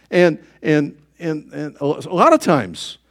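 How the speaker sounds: ordinary delivery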